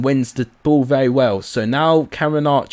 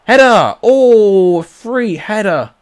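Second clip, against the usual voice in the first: shouting a near-miss chance, high and loud; excited commentary; 8 semitones higher, 6 dB louder, much slower than usual. Real, not acted. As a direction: burst out at the missed header, then draw it out. Big chance missed in commentary.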